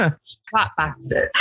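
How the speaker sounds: slow savouring. Pretend. Swear word slowly savoured.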